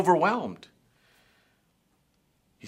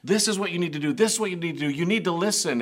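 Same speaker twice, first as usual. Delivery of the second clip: mild retold scolding; 6 semitones higher, much faster than usual. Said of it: "were actually shouting out there".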